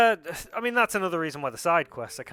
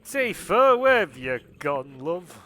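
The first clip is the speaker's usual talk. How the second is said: put-on West Country accent; 6 dB louder, slower than usual. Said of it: "Another accent that would".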